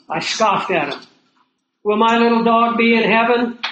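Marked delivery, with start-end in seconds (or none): 1.8-3.6 lightly voiced hopeful pet owner asking; a touch of childlike hope in the question; earnest question. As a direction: ask it sincerely, like a worried believer. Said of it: "People used to ask me".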